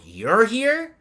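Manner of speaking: loud question leaping high; mock alarmed disbelief. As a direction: squawk it in stunned disbelief. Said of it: "freezes in fucking sheer fear".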